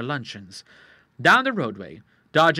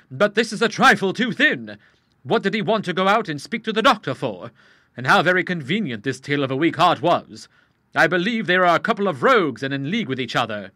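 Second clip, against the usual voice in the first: put-on louder young man grumbling his doubts; a blunt young fellow who smells a rat; lightly voiced suspicious young man; young Charles, suspicious; 4 semitones higher, 7 dB louder than usual.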